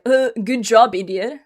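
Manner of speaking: loud, mocking put-down; scornful mock congratulations; sarcastic insult. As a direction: read praise as a sneering insult. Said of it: "I'm gonna read "good job" as, like".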